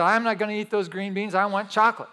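lightly acted, insistent four-year-old refusal; screaming child's tantrum. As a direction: imitate a small boy throwing a fit. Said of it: "he's screaming, and he's crying".

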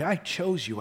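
level, gentle retelling; calm restatement. Acted. Preacher restates God's choice, calmly. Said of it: "God says".

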